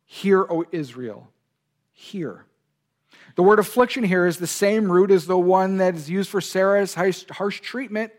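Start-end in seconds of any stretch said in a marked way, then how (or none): 0.0-2.5 solemn recitation. Shown as a demonstration. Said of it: "the Shema in Deuteronomy six is".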